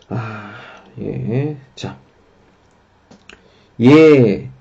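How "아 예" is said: normal talking voice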